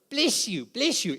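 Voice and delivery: mock pious chant of bless you; mocking churchy bless you. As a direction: lampoon the glib church blessing. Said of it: "Here's a cliche that's overused in the church".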